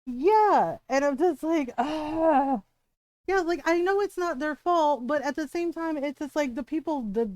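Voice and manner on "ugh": exasperated "ugh"; frustrated groan. Retold or imitated. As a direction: groan it out, fed up. Fed up about cancelled order.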